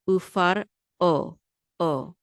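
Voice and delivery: ufar o with a clear break before the o; separated syllables. Shown as a demonstration. Teacher showing the o is separate, broken-up syllables. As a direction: say ufar, then o as its own syllable. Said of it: "The o is separate from the uh".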